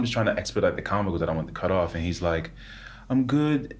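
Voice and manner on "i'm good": grandfather voice. Retold or imitated.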